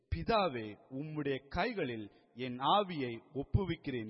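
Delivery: moderately loud retold cry, phrase by phrase. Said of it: "மகா சத்தமாய் கூப்பிட்டு சொன்னார்".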